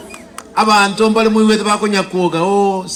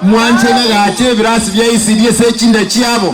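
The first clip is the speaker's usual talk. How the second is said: rally speech; 3 semitones higher than usual. Real, not acted. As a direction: fire up the crowd. Rally speaker rousing crowd.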